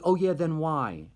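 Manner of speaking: high, loud, slow mock challenge; retold challenge. Student daring her friend to explain, retold challenge. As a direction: draw it out as a doubting retort.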